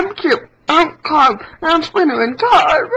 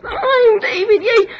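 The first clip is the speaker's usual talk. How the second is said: higher, shouted little hero; 5 semitones higher than usual. Pretend. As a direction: cry it out triumphantly. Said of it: "One hundred impressions".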